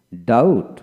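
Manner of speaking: ডাউট as "daut", no b before t; ডাউট, diphthong straight into t; silent b. Shown as a demonstration. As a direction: say ডাউট with the b left out. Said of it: "বি উচ্চারিত হবে".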